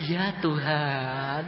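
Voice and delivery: slow, drawn-out devout reply; imitated humble response; reverent answer. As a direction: answer a supposed God meekly. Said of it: "Setan tak panggil".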